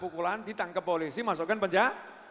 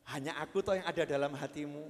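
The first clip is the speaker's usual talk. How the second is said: sweet talk; 8 semitones lower, 5 dB quieter than usual. Shown as a demonstration. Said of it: "mbok ngomongnya diganti, yang bagus".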